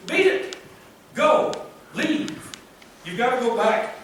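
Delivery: a hint of hostile townsfolk; people driving him out. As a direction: bark it like the locals chasing him off. Voicing those telling him leave.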